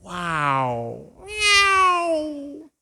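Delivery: high, loud mock meow; kitten meow. Pastor mocking a weak father's meow instead of a roar. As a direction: squeak out a tiny cat meow.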